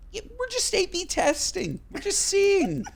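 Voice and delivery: very high-pitched comic excuse; mock defensive. Host replaying his answer to worried partner, mock defensive. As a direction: plead innocence in a squeaky-high voice. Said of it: "I'm like".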